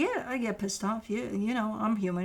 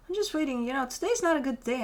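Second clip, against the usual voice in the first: higher-pitched, mildly put-on excuses; mock excuse-making; 4 semitones higher, faster than usual. Reader voices client explaining what they're waiting for, mock excuse-making.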